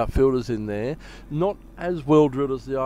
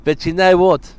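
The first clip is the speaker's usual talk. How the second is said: put-on Indian accent; 2 semitones higher, 7 dB louder than usual. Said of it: "How about an Indian accent?".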